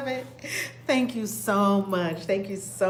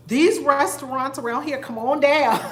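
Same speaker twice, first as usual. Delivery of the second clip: louder, with a laugh in the voice; laughing invitation; 4 semitones higher, 7 dB louder than usual. Real, not acted. Inviting viewers down to Mexico, laughing. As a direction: beckon them with a laugh.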